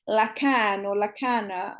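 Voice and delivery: slow, tentative try at "lakan or lakana"; careful foreign pronunciation. Real, not acted. Guest trying a Rhodian dish name for the host, carefully pronounced. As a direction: sound out "lakan or lakana" slowly, unsure. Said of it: "let me see if I'm pronouncing this correctly".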